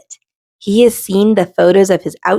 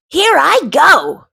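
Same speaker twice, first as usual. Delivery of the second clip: launching into the unknown; brave shout; 9 semitones higher, slower than usual. A narrator's reading. Rick leaps off the shelf.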